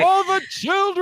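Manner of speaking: shouting. Pretend. Chanting a catchphrase.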